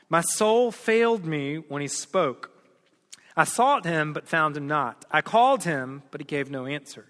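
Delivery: scripture reading. Acted. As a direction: read the verses like a preacher at the pulpit. Reads Song of Solomon aloud.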